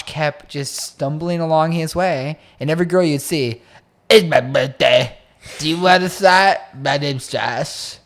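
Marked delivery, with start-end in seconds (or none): 4.1-8.0 louder slurred pickup line, slowing at the end; drunk Josh voice. Retold or imitated. Friend imitates drunk Josh offering girls a shot, slurred. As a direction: drunkenly chat up a girl.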